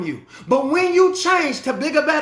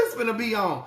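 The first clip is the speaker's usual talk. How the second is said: excited spender; 3 semitones higher than usual. Retold or imitated. Mock congregant boasting about money.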